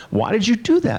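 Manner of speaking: lightly hammed-up wife; wife's exasperated cry. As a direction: squeal it like a stunned wife. Wife voiced in retold story.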